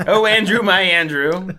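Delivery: fawning devotion. Acted. Goblin fawning over Andrew.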